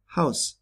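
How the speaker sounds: German house ending in a plain S sound; final S unvoiced. Shown as a demonstration. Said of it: "pronounced like S in English".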